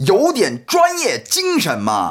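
slow, exact tones on 有点专业精神嘛; crisp Mandarin tones. Retold or imitated. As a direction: hit each tone of 有点专业精神嘛 cleanly. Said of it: "성조가 아주 그냥 칼같이 들어간다".

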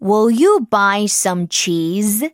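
"Will you buy some cheese?" slow with a rise on "you"; slow teacher read of "Will you buy some cheese?"; question intonation. Shown as a demonstration. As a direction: model the question, rising at the end. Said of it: "이렇게 바꿔줄 수 있다라는 거죠".

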